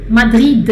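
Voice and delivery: "Madrid" with the final D clearly pronounced; final D sounded. Shown as a demonstration. Teacher to students showing how the French say it, D sounded at the end. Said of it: "falam o D final".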